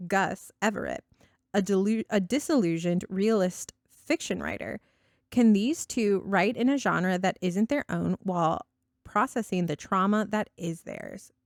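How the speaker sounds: light, grand recital of a blurb; mock Shakespearean verse. Host resuming her book blurb for co-host as mock verse, lightly declaimed. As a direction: read it like a play prologue, half-serious. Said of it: "Shakespearean verse".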